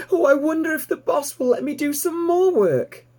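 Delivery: put-on high, bright young piglet voice, thrilled; piglet Babe, delighted. A narrator's reading. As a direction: squeal it out like an excited little pig.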